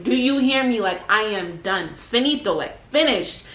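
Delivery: firm, exasperated and emphatic; exasperated insisting. Retold or imitated. Insisting she quits kayaking.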